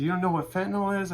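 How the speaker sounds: high, fast disbelieving question; incredulous. Retold or imitated. Customer shocked the cashier never heard of fentanyl.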